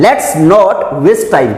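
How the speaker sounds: each word slow and careful; slow model reading. Shown as a demonstration. Teacher reads the example slowly. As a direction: read it out slowly. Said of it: "last example क्या है".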